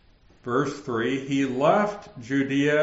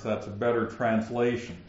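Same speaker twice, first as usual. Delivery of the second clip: normal talking voice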